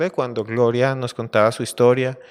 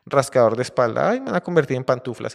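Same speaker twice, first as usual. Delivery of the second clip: mildly lamenting lion; a touch of woe, lightly acted as a doomed lion; poor lion; 3 semitones higher, 4 dB louder than usual. Trapped lion bemoans becoming slippers, mild lament. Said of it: "el pobre león ahí".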